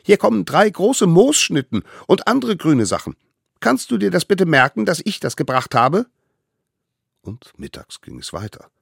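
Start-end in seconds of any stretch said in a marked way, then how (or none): 0.0-6.1 high, eager little voice; tiny eager hunter. Acted. Little hunter brings food to the mammoth, high and eager. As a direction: play the smallest one, proud and keen.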